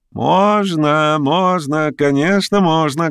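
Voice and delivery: pitched high, eager and merry; loud cheerful shout. A narrator's reading. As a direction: call out gladly through the door. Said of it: "громко и весело крикнул". (громкий весёлый окрик)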